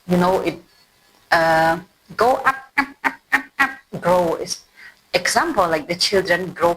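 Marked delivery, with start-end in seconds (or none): 2.2-3.7 rising up. Shown as a demonstration. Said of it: "Grow mean".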